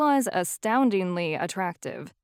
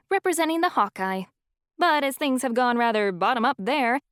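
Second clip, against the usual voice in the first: lightly voiced serene mentor, lifted higher; a gentle, joyful elder teacher; the speaker's serene voice; 4 semitones higher than usual. Wise professor welcoming the family, lightly voiced serene lift. She explains her double life.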